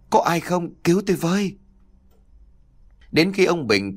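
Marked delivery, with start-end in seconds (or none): 0.1-1.6 high, frightened plea for rescue; screaming for help. A narrator's reading. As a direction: cry out desperately, pitch way up. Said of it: "chỉ kịp thét lên".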